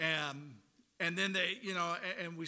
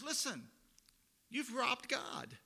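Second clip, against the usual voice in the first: God's accusation; 7 semitones higher, slower than usual. Retold or imitated. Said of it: "And he says".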